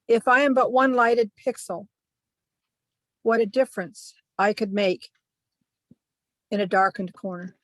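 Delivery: measured recital with long pauses between lines; poetry reading. Acted. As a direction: read your short poem aloud, line by line. Reads own short poem aloud.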